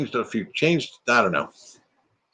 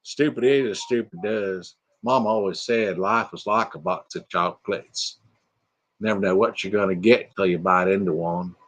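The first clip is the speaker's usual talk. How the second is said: Forrest Gump impression; 4 semitones lower, 3 dB quieter than usual. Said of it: "Forrest Gump".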